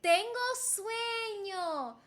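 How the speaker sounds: slowly drawn-out model phrase; slow repeat-after-me demo. Shown as a demonstration. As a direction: say it slowly for learners to copy. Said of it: "Can you repeat after me?".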